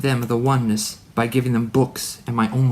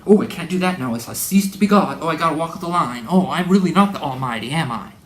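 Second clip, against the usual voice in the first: higher, whiny mock of a limited god; mocking fretful god; 4 semitones higher, 3 dB louder than usual. Preacher mocking the Mormon god, whiny and higher. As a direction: play a worried god fretting over his limits. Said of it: "I'm gonna be a smarty pants".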